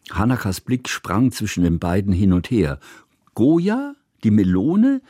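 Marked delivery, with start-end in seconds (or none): 3.3-5.0 high, loud puzzled question; puzzled girl. A narrator's reading. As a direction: ask like a confused child.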